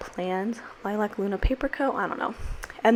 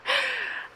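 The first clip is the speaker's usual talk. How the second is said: emotional laugh; 8 dB quieter than usual. Real, not acted. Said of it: "I'm getting emotional".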